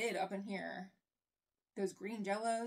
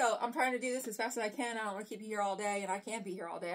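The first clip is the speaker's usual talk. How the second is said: rushing through it fast; hurry, talk a mile a minute; pressured rushing speech; faster than usual. Real, not acted. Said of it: "I'm sorry if I'm talking a mile a minute".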